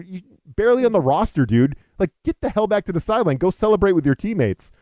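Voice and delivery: exasperated scolding. Retold or imitated. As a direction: lay into him like a fed-up vet. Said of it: "part of me is like".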